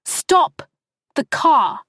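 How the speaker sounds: high, loud scream. Acted. Wife screaming at taxi driver to stop the car, full scream. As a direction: scream it at him with all you've got. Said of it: "she screamed at him".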